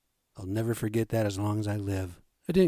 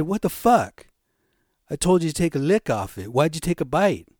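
raised, higher voice of exasperated disbelief; punchy retold outburst, louder on the swear; mock angry stepdad; 4 semitones higher, 4 dB louder than usual. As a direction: imitate a dad losing his patience. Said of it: "And he was mad".

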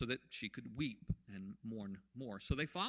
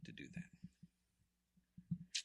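pleading protest; 2 semitones higher, 5 dB louder, slower than usual. Retold or imitated. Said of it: "She was saying".

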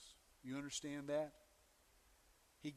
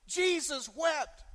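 Jesus wept, shouted slowly and higher, each word weighted; slow shouted proclamation; 10 semitones higher, 7 dB louder, slower than usual. Shown as a demonstration. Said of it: "let me blow your mind".

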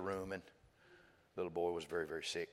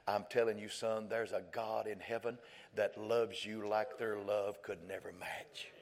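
slow earnest plea; slower than usual. Acted. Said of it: "He said".

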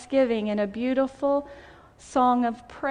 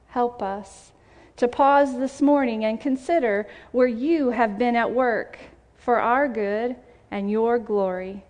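prayer. Acted. Pastor leads her congregation in prayer, gentle and measured. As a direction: pray it over the people.

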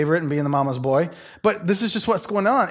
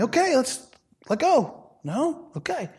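playful God; 8 semitones higher than usual. Retold or imitated. God voiced, wrestling playfully.

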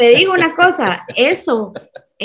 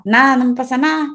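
negación a la defensiva; 3 semitones higher, faster than usual. Retold or imitated. Negación retratada de una molestia.

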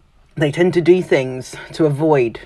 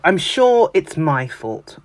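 mock apology; 4 semitones higher, 3 dB louder, slower than usual. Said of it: "When they start with".

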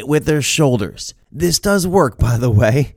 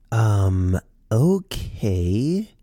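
usual speaking voice

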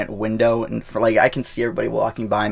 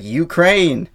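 higher-pitched mocking quote; mock pestering; 7 semitones higher, 4 dB louder than usual. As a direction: lightly imitate people going on at you. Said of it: "people keep coming at me and being all like".

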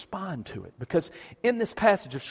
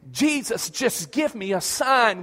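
mock scream; 6 semitones higher, 3 dB louder, slower than usual. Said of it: "you're screaming".

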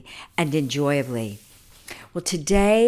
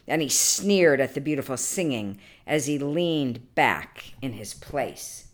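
expressive, measured read-aloud storytelling; story narration. A narrator's reading. Storyteller reading an old legend to listeners, expressive narration. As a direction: read it as an old legend, lingering on key words.

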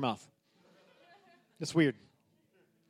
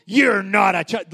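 harsh shout; 4 dB louder, slower than usual. Retold or imitated. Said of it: "He's not like".

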